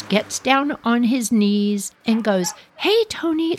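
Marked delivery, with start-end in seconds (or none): 2.8-3.6 calm coaxing. Retold or imitated. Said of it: "like in a real calm voice".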